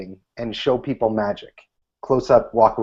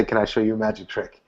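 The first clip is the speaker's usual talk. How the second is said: the wrong approach; 4 semitones lower, 6 dB quieter than usual. Shown as a demonstration. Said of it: "never walk up to someone and say".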